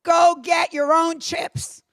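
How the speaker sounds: a hint of a gruff old boss, slow at the end. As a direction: lecture her like a dismissive old man. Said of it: "he goes".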